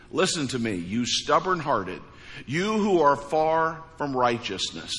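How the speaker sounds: forceful sermon reading; preaching scripture. Acted. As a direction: proclaim God's words from the pulpit.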